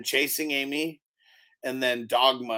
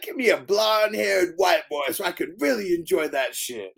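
mock shout; 4 semitones higher than usual. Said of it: "And he was like".

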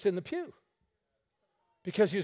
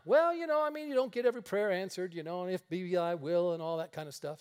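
mock a wishy-washy believer, tailing off quicker; mimicked excuse-making. Preacher mimics Christians explaining unanswered prayer, mock hedging.

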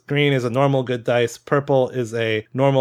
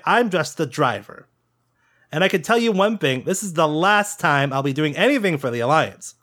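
irritated rant; 2 semitones higher than usual. Acted. Fed-up pilot to the agent, exasperated griping. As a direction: vent like a fed-up smuggler who got stiffed.

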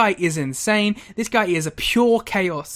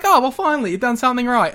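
mock relieved wrestler; 6 semitones higher, 3 dB louder, faster than usual. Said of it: "they're just like".

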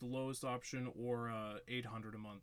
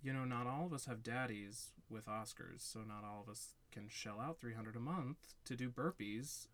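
sassy comeback. Retold or imitated. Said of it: "threw a little sass back at him".

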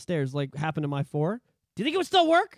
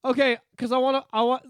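wheedling husband; 3 semitones higher, 3 dB louder than usual. Retold or imitated. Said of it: "forty-year-old men are like".

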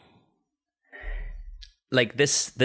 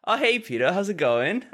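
fake innocent; 10 semitones higher than usual. Fake-innocent greeting to pranked friend.

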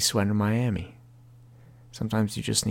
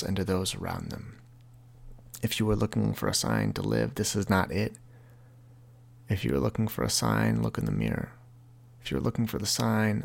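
reading from his book. Shown as a demonstration. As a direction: read the chapter aloud, intimate and steady. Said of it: "chapter in my book that I would like to read to you".

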